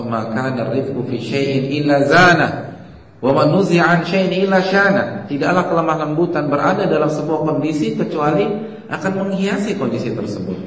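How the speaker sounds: loud, ringing preaching; loud sermon recitation of the hadith; forceful hadith recitation. Acted. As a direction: proclaim the Prophet's words at full force.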